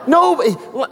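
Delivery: laughing. Real, not acted. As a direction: let the laugh spill out. Laughing at his own point.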